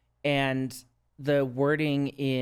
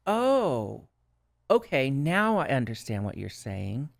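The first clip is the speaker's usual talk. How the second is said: dawning realization. Retold or imitated. Recounting the moment twelve step made sense, dawning realization. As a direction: act out the penny dropping. Acts out her moment of understanding.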